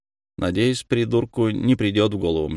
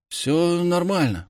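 slow, faltering reply; hesitant; 8 semitones higher, slower than usual. A narrator's reading. Bullied boy tells the hero everything's fine, faltering. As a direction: stumble over it, unsure. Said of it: "проговорил, запинаясь".

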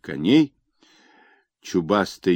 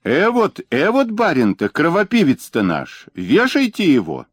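much higher, louder jeering cry; angry crowd shout; 9 semitones higher, 4 dB louder than usual. Acted. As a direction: howl for him to be hanged.

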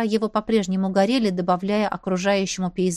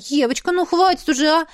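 high, louder coaxing comfort; soothing sister; 6 semitones higher, 4 dB louder than usual. A narrator's reading. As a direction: coax a crying sister to stop. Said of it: "вытирала мне слёзы, приговаривая".

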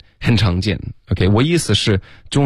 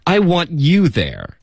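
high-pitched, slow mock earnestness; slow, exaggerated acted sincerity; Rachel's snide comeback; 9 semitones higher, slower than usual. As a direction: draw it out high, setting up a put-down. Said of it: "然后她就解释".

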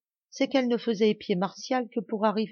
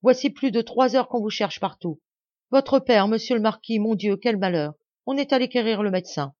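flustered; 5 semitones higher, 5 dB louder than usual. Acted. Servant reports master's collapse.

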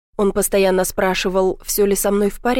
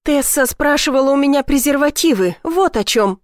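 higher, half-shouted outburst; nearly shouting; 6 semitones higher, 3 dB louder than usual. A narrator's reading. Ivy confronting Blake about Tessa, almost shouting. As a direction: blurt it out angrily. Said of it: "практически выкрикнула я".

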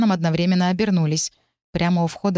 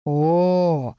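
groan. A narrator's reading. Voice in her head despairing at the quarrel, mild groan. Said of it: "простонал Арк у меня в голове".

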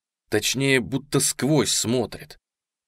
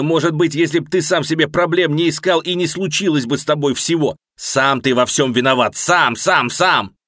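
loud furious yelling, higher; 4 semitones higher, 6 dB louder than usual. A narrator's reading. Narrator on the roof edge yells at Alex, furious loud yelling. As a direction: scream the accusations at him. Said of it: "начинаю орать".

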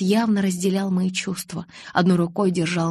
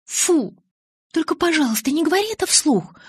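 disgusted; 10 semitones higher, 3 dB louder than usual. Acted. Bella recoils in disgust.

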